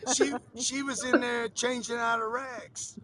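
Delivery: crying with laughter; words broken by laughter; laughing. Real, not acted. Laughing at toilet joke.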